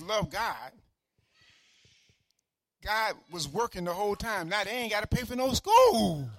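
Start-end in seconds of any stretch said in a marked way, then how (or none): 4.5-6.3 triumphant exclaim. Acted. Pastor celebrating a free scholarship, triumphant. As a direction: celebrate it to the church.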